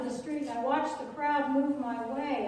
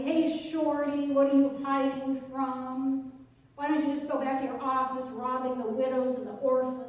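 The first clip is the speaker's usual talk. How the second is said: jeering yell; 3 dB louder than usual. Acted. Crowd yelling at Zacchaeus in the tree, loud jeering taunt. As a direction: jeer at him like a heckler. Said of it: "yelling at me".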